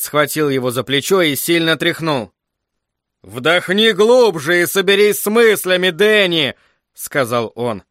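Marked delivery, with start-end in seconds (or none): 3.2-6.5 raised, higher-pitched urging; urgent command. A narrator's reading. Father shaking his mumbling son by the shoulder, urgent command. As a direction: press him to pull himself together.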